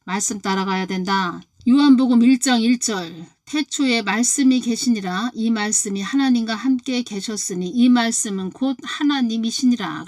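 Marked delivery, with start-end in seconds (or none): 1.7-10.0 raised, louder solemn scripture recitation; scripture reading. Acted. Preacher to congregation, solemn raised scripture reading. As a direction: proclaim the verse to the congregation.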